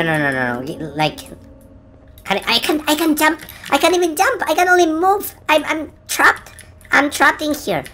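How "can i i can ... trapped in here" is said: high-pitched, stammering distress; panicked. Real, not acted. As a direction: stammer in alarm at being trapped. Trapped and helpless in horror game.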